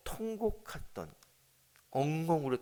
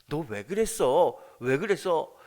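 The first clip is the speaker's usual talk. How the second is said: feared reproach; 3 semitones higher, 9 dB louder, slower than usual. Pretend.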